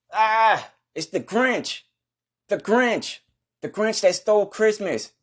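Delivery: high-pitched alarm at spotting the thief; a yelp of sudden recognition; shocked. Acted.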